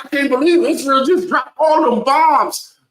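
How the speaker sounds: mock Trump quote. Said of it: "He said".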